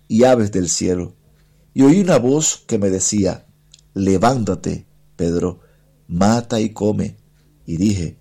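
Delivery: measured, solemn Bible reading with deliberate pauses; Scripture reading. Acted. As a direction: read the passage aloud phrase by phrase to a congregation. Reads Scripture aloud on radio.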